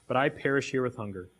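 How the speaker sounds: measured, earnest Bible reading; scripture reading. Acted. Pastor reading the prodigal son to the church, earnest reading voice. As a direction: read the parable to the congregation with weight. Pastor reads the parable aloud.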